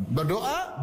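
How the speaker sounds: normal talking voice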